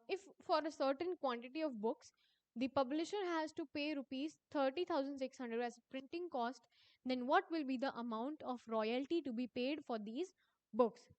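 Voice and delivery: reading the exam question aloud, slowly and deliberately. Acted. Teacher reading a quiz question to her students, slow dictation. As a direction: dictate each word to the class.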